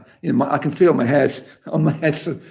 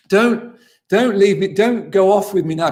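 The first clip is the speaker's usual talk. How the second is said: put-on higher, urgent pleading of a frightened old woman; panicked plea; 5 semitones higher than usual. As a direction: beg the driver not to leave.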